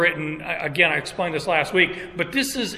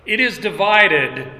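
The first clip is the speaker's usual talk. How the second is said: "It is divided" pushed out a bit louder; emphatic; 3 semitones higher, 4 dB louder than usual. Retold or imitated. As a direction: land "It is divided" with firm emphasis. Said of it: "and again, this is emphatic".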